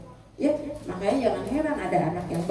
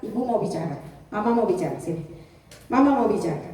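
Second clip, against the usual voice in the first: put-on gentle call to child; 3 semitones lower, faster than usual. Shown as a demonstration. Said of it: "Kalau saya biasa ke anak".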